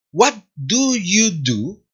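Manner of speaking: What do you do? said slowly, rising only on the last do; slow question rising at the close; rising question tune. Shown as a demonstration. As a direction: lift the pitch only at the end of "What do you do?". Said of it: "solamente se utiliza ... para cerrar".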